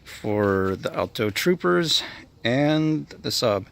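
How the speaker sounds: winded, slow, with breathy pauses; talking while catching his breath. Real, not acted. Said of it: "I apologize if I sound a little out of breath here".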